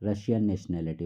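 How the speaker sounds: slow, deliberate reading with Russian in the blank; completed answer reading. Shown as a demonstration. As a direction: read the finished answer to the class. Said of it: "उसकी nationality कहाँ की है?".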